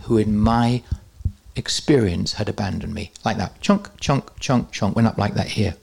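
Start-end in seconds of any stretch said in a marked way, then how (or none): 3.6-5.0 imitated chunking noise. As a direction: spell out each pop as a separate chunk. Imitates four figures popping up.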